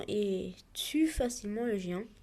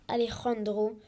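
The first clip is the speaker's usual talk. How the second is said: put-on Spanish accent, pushed louder; 5 dB louder, slower than usual. Gamer announcing his opponent's name in a put-on Spanish accent. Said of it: "Avec mon accent espagnol".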